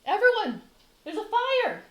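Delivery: loud, high cries of fire; yelling alarm. Acted. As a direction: yell to raise the whole village. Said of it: "Asphodel starts yelling".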